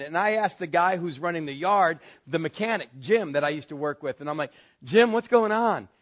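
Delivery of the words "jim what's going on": urgent question. Retold or imitated. Asking mechanic about the fight.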